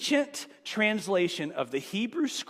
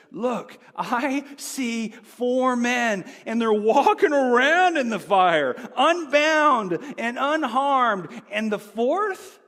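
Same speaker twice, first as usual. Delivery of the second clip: astonished king; 4 semitones higher, 5 dB louder, slower than usual. Retold or imitated. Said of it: "He said".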